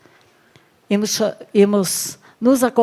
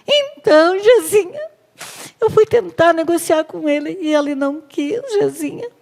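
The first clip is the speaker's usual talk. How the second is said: put-on very high childish pleading voice; whiny Ahab; 7 semitones higher than usual. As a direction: whine and tattle like a spoiled child. Ahab whining.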